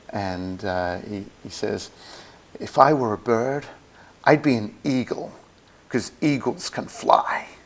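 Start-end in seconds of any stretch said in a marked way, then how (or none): 2.6-7.4 bad, clumsily mangled, butchered American accent. Speaker quoting what an enthusiast says, butchered accent impression. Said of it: "I'm going to butcher the accent".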